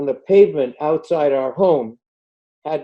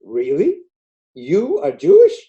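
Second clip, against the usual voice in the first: retold surprise, rising high and louder; incredulous question; 4 semitones higher, 4 dB louder than usual. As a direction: play the doubtful American, amazed. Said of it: "some Americans say".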